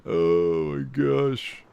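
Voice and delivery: very slow, drawn-out "oh"; amused exasperation. Real, not acted. Commentator dismayed by his own silly slip, exasperated. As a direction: stretch it out in disbelief at yourself.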